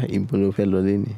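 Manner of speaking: "Ibo lo fẹ́ lọ léni" as a native Yoruba speaker demonstrates it; Yoruba translation demo. Shown as a demonstration. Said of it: "How would you say".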